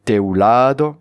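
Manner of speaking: "Teulado" with a long, strong "la"; stress on second-last syllable. Shown as a demonstration. Teacher repeating an Occitan example, stress on "la" in "Teulado". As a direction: lean on "la" in "Teulado", light final "do". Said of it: "l'accent se fait sur l'avant-dernière syllabe".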